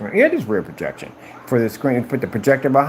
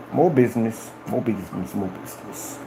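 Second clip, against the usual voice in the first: each more business softer until a whisper; fading echo; 4 dB quieter than usual. Shown as a demonstration. Dreaming of profits, repeating it ever softer to a whisper. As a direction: let it die away to a whisper. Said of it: "repeated, fading away".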